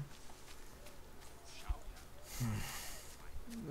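long, soft sigh; exasperated sigh. Real, not acted. Hunter fed up with noisy badger, long sigh. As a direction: let out a long weary breath.

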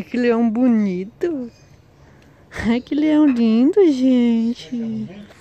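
high, loud gushing over the pet; gushing praise. Real, not acted. Praising the fluffy lion-like pet, gushing loud and high.

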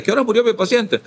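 a surprised doctor checking on his patient; doctor asking. Retold or imitated. Doctor asks the nurses the time of death, surprised. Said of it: "y dice".

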